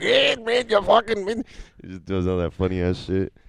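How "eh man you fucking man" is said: very high, loud, crazy-guy mock Irish accent. Imitating a crazy irish guy from a video: put-on irish accent. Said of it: "He's like".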